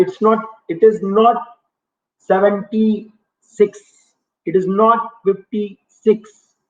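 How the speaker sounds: slow, with "not" pressed hard and drawn out; slow and firm, "not" clearly stressed. Real, not acted. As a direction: hammer home that it is not fifty-six. Teacher correcting wrong answer.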